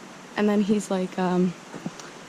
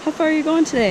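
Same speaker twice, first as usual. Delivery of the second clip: a retold call up the trail, pitched high; mock yell; 7 semitones higher, faster than usual. Old man calling after the hiker, mock yell. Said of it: "he yells back at me".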